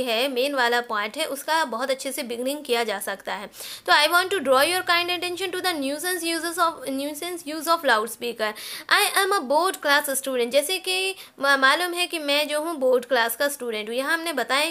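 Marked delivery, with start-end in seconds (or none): 3.9-10.5 very slow, word by word, for students to copy; slow, deliberate dictating voice; slow dictation. Shown as a demonstration. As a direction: dictate each word slowly so the class can write. Teacher dictating model letter line.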